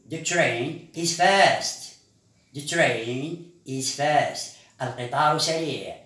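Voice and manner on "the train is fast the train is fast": slow, deliberate, every word separated; slow model sentence. Shown as a demonstration. Teacher modelling a sentence for the class, slow and clear. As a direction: lay each word down slowly for learners.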